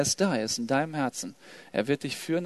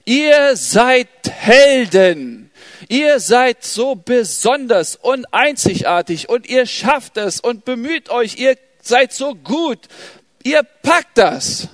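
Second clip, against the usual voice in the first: viel höher, lauter und langsam, übertrieben euphorisch; äfft einen aufgeblasenen Prediger nach, der sein Publikum anheizt; spöttischer Motivationsprediger; 7 semitones higher, 9 dB louder, slower than usual. Retold or imitated. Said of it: "die stellen sich vorne hin und sagen". (nachgeäffter Jubelprediger, schwülstig und gedehnt)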